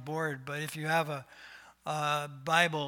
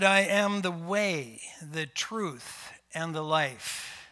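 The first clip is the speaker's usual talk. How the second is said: louder, proclaiming the words; emphatic quote; 3 dB louder, slower than usual. Shown as a demonstration. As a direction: proclaim it like scripture. Quoting Jesus, louder.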